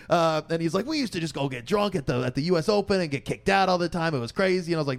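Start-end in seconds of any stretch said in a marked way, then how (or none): 0.9-4.7 higher-pitched New York reminiscing; old New Yorker accent. Retold or imitated. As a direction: imitate an old New Yorker boasting of wild days. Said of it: "old New Yorker".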